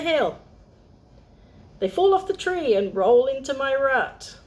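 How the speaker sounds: high, proud little squirrel voice; boastful squirrel. Acted. Handler the squirrel boasts to Olive, high and pleased. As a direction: brag about the nut pile.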